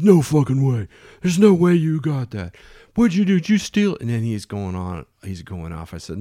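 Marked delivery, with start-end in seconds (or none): 0.0-4.0 loud, much higher mock disbelief; incredulous outburst. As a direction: act out someone flabbergasted, climbing in pitch. Expediter's disbelieving outburst, acted.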